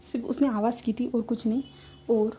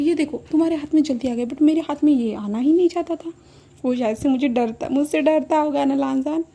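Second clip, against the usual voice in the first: higher, louder playful boast; a pitched-up, loud tipsy brag; childish boast; 3 semitones higher, 7 dB louder than usual. Retold or imitated. Drunk Wing boasting childishly.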